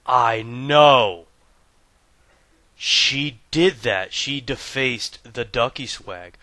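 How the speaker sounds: loud, then drawn out slowly in disbelief; hammed-up indignation over a robe; mock outrage. Gamer telling viewers his wife ruined his robe, in mock outrage.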